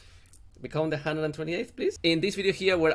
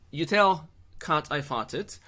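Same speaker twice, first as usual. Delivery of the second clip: mock French accent; 3 semitones higher, 4 dB louder, slower than usual. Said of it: "I also love to make a French accent".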